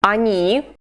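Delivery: very slow, deliberate phrases with long gaps; slow repeat-after-me drill. Shown as a demonstration. Teacher drilling the class slowly before they repeat. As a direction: say each form slowly for copying. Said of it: "So repeat after me".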